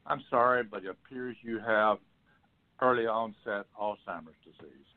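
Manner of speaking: imitating a stiff, formal monotone; monotone doctor. Doctor delivering a diagnosis to a couple, mildly monotone. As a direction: retell it as a lightly voiced, emotionless doctor. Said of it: "talk in a very monotone voice".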